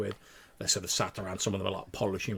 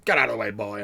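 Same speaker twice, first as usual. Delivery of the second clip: gruff shout; 9 dB louder than usual. Acted. Dwarf shoves through recruits.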